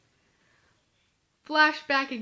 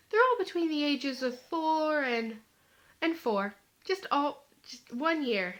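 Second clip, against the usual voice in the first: deadpan joke. Retold or imitated. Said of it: "being the comedian that I am".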